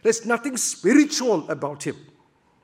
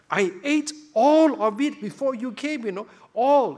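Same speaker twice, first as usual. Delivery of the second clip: agitated Isaac; 6 semitones higher, 4 dB louder than usual. Acted. Isaac's trembling reply voiced.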